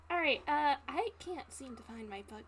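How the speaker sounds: apologetic innkeeper. Acted. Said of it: "an N P C cameo".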